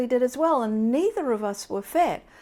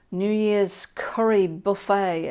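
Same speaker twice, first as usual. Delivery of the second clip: a slow, badly done try at an English accent; attempted English accent; slower than usual. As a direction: stretch out the words in a clumsy English accent. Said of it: "I can't do the English accent".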